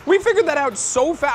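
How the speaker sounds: high, loud, thrilled announcement; excited breakthrough. Real, not acted. Telling viewers they figured out the city so fast, thrilled. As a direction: burst out with the discovery, high and loud. Works out opponent's city, celebrating.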